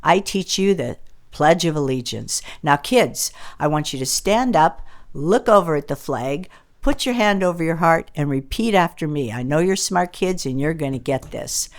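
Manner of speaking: lightly voiced sweet teacher greeting the class; a hint of a cheery schoolteacher; kindergarten teacher. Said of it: "And the kindergarten teacher says".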